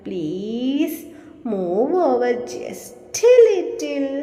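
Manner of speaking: slow, drawn-out begging on move over just a little; pleading. Shown as a demonstration. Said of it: "sparrow plead ചെയ്ത് ചോദിച്ചു". (യാചിച്ച് പതുക്കെ ചോദിക്കുന്നു)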